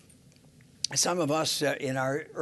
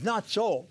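"Not so" lifted higher with weight on "so"; stress on contrast; 4 semitones higher than usual. Shown as a demonstration. Preacher showing the Hebrew contrast, stressing "Not so". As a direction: lean on "Not so" to mark the contrast. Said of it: "the Hebrew puts the emphasis on the contrast".

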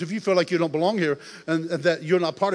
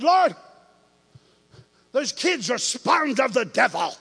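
exasperated prayer; 5 semitones higher, 5 dB louder, slower than usual. Retold or imitated. Complaining to God in truck.

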